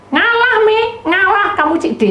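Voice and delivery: mother's order. Retold or imitated. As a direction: tell the older son to give in.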